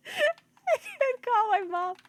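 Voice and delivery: high, slow, teary laughter; words squeezed out through helpless laughter; laughing till crying. Real, not acted. Streamer laughing so hard she's crying, high and slow. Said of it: "I'm crying".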